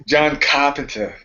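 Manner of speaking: slow Boston twang on the name; Boston accent. Retold or imitated. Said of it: "a little bit of Boston, uh, twang".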